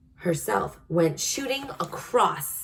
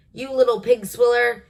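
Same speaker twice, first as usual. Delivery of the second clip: loud, higher furious giant roar; 6 semitones higher, 6 dB louder than usual. A narrator's reading. Giant roaring at the BFG who fed him snozcumber, loud furious bellow. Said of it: "The blood bottler roared".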